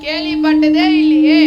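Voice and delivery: loud, astonished cry; amazed. Acted. Poor poet hearing of a thousand gold coins, loud amazement. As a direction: gasp at the huge prize, out loud.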